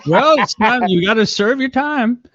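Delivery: high, mocking parental voice. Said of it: "quoted mock reply".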